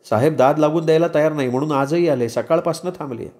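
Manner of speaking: lightly voiced woman explaining her wait; a hint of an earnest young woman; explain, in a lightly put-on woman's voice; Shahnaz. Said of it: "Shahnaz म्हणाली".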